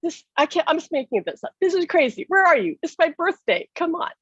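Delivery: high, pleading, tearful-sounding retold cry; begging him to show up; desperate plea. Grieving wife pleading with her late husband, high and desperate. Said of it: "I said".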